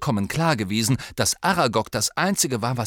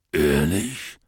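surprised; 5 semitones lower than usual. Acted. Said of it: "verblüfft und gerührt zugleich".

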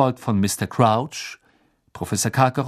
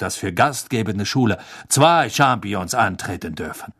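cold sneering man; 3 semitones higher, 4 dB louder than usual. Acted. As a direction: speak with an icy smile. Karkaroff voiced.

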